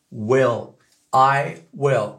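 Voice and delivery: will with a vowel near French é; will à l'américaine; American will. Shown as a demonstration. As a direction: say will leaning toward é. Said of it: "c'est l'auxiliaire du futur".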